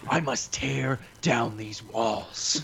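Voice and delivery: very slow, grand mock proclamation; dramatic villain voice. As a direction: declare it like a movie tyrant.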